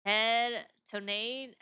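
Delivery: slow, even robotic voice. Acted. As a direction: speak like a machine reading out data. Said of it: "what a strange robotic voice you have".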